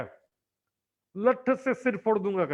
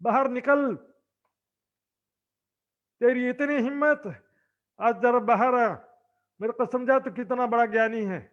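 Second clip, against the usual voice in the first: mildly raised, threatening yell; retold angry shouting. Mohabbat Khan shouting for Ibrahim at the wedding, mock angry. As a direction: call him out like a furious Pathan. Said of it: "वहां पर चिल्लाने लगा".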